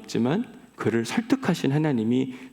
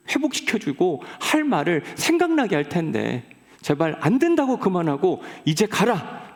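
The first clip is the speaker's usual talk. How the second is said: mildly raised scolding; scolding God; 3 semitones higher than usual. Acted. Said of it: "또 한 번 꾸짖으세요".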